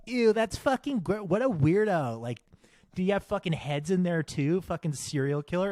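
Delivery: mock disgust. Mocking the girls' disgusted reaction.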